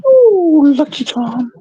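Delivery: slow squeaky high tease; drawn-out high sing-song; high teasing voice. Pretend. Teasing Lucky Charm in high voice.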